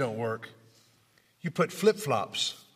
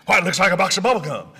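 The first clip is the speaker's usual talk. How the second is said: puzzled doctor; 2 semitones higher, 5 dB louder, much faster than usual. Retold or imitated. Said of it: "what does it look like".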